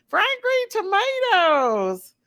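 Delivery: reading a name out through a laugh; slow, amused, laughing the name. Real, not acted. Host laughing as she welcomes a viewer to the chat, laughing.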